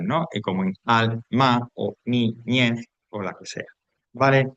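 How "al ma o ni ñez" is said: AL, MA, NI, ÑEZ as slow separate beats; isolated syllables. Shown as a demonstration. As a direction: give each of "al, ma, ni, ñez" its own beat. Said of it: "con consonantes".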